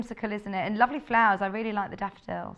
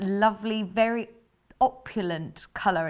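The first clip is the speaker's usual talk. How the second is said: telephone voice. Shown as a demonstration. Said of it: "makes me put my telephone voice on".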